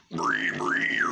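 voiceless squealing bree bree; pig squeal. Shown as a demonstration. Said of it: "if you can do pig squeals".

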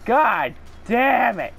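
real gamer rage, dragged out; frustrated outburst. Real, not acted. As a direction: let the frustration burst out slowly.

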